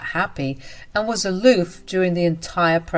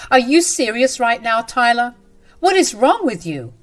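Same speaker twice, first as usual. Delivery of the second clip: raised, indignant voice pushing back; angry retort; 5 semitones higher, 4 dB louder than usual. Acted. Wife standing up to her husband about maternity leave, angry retort. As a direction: snap back at him, half-shouting. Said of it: "I angrily stood up and said".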